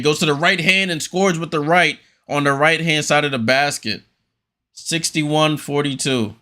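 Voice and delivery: brisk running game call, pass by pass; play-by-play. Acted. Streamer calling the game live for viewers, play-by-play. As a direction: call each pass as it happens.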